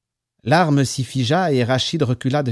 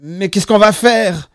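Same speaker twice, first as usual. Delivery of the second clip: slow, higher, loud distress; frightened, drawn-out trembling question; 6 semitones higher, 7 dB louder, slower than usual. A narrator's reading. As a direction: ask it shakily, at a loss. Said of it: "d'une voix tremblante".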